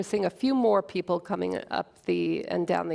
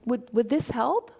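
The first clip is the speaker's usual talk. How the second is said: gentle, halting; 3 semitones higher than usual. Retold or imitated. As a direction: offer it shyly, unsure. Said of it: "in the most gentle voice, kind of haltingly".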